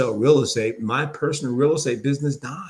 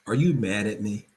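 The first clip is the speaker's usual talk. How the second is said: calm concerned tone; 2 semitones lower than usual. Shown as a demonstration. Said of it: "Notice the tone, the reflection".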